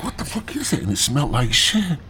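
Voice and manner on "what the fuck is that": disgusted shock. Retold or imitated. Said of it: "And I'm like".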